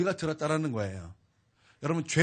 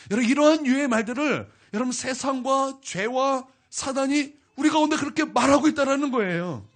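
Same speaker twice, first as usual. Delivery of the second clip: loud, raised, driving sermon voice; full-force pulpit fervor; fervent preaching; 6 semitones higher, 7 dB louder than usual. Acted. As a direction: preach it out to the whole church.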